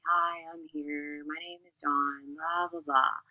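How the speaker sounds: slow, bored, monotone example of what not to do; mock dull self-introduction; lifeless delivery. Shown as a demonstration. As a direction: drone it out with no life. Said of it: "You don't wanna just be saying".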